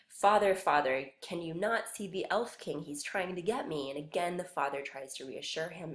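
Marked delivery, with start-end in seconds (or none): 0.1-3.9 scared son. Acted. Boy pleading with his father, mildly frightened. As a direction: call your father in mild fear. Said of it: "the son is saying".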